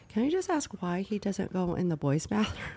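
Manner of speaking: hushed whispered question; a curious student whispers to the teacher. Retold or imitated. Student asking quietly.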